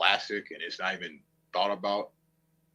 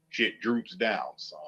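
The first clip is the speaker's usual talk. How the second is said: ordinary talk, nothing marked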